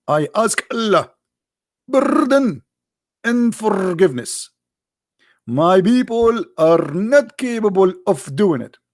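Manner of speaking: mocking a plea for pardon; mock pleading. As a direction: drag it out like a begging excuse. Mocking Muhammad's plea again.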